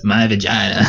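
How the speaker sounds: a light take on Amy Schumer's delivery; a hint of a comic's deadpan punchline. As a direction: quote her punchline in her own timing, only lightly voiced. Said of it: "Amy Schumer says".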